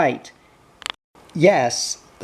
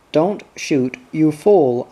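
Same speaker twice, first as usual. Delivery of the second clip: crying out. Retold or imitated. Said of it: "I cried".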